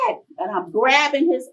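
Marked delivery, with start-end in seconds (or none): 0.1-0.2 yell. Retold or imitated. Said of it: "All I could do was yell".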